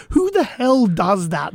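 slow, drawn-out retold indignation; pissed off. Recalling anger on behalf of a woman ditched on a date, indignant. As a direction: stretch it out in outraged disbelief. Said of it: "I was pissed off. I was like".

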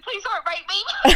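high, drawn-out mock crying plea; retold tearful plea. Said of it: "I started crying".

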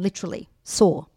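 "sore" set apart and leaned on; emphatic, deliberate "sore" at the end; stress on sore. Real, not acted. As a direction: land firmly on the word "sore". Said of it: "I'm emphasizing the word sore".

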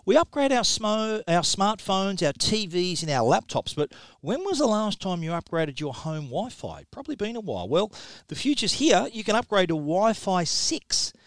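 punchy podcast ad read; sponsor ad read. Real, not acted. Host pitching Wi-Fi six routers to listeners, in ad-read style. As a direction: read the sponsor copy with salesman's emphasis.

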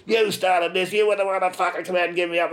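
mock yell held high in pitch; retold angry yell. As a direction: imitate a woman yelling accusations. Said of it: "she's yelling at my shoe".

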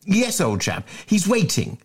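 high, shifty schoolboy voice; squeaky schoolboy. Acted. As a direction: bluff it out nervously. Bunter voiced.

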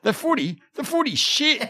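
put-on very high, loud, blunt Spanish-accented dismissal; little Spanish accent. Clueless friend dismissing footy to its king, in a high Spanish accent. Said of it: "In a little Spanish accent".

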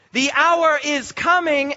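"The hour is coming" slowly, each word weighted; deliberate emphasis. Shown as a demonstration. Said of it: "hear that with new ears".

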